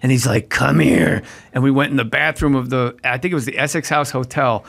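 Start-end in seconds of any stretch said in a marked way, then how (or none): 0.5-1.2 gruff order to come over, acted out; retold stern summons. Director ordering young actor off for a talking-to, stern. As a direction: summon him like an angry boss, at normal pitch.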